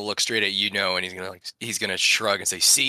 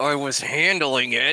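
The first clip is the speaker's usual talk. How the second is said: slow, high, forced out through gritted teeth; 6 semitones higher, 3 dB louder than usual. A player voices Corbin, hit by magic missiles mid-fight, through gritted teeth. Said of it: "he's going to grit his teeth".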